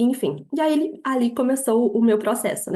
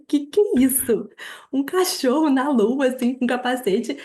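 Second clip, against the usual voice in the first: retold bafflement; 3 semitones higher than usual. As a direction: re-enact puzzling over an absurd sight. Retold bafflement at dog on moon. (espanto divertido, encenado)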